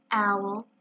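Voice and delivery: grave, restrained address; understated seriousness; solemn. Acted. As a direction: say the name soberly. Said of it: "said Pooh solemnly".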